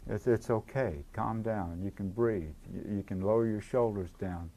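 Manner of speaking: put-on gently reassuring, like settling a scared child; soothing. Shown as a demonstration. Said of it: "just say".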